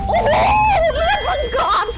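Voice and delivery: high thrilled yell; shouted with delight; excited shout. Real, not acted. Big damage to dragon.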